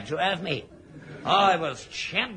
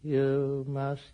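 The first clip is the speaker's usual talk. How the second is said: eerie hypnotic command; much slower than usual. Acted. Hypnotic inner voice urging the son to kill. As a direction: lull him into murder, slowly.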